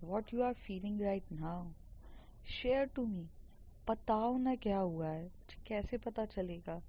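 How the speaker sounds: slow, soft coaxing to a crying friend; gentle and reassuring. Retold or imitated. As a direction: ease her into talking, very slowly.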